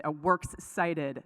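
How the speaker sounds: "works cited" drawn out, lightly Southern; Southern accent. Retold or imitated. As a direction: slur "works cited" slowly toward "we're excited" in Southern. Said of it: "with her Southern accent".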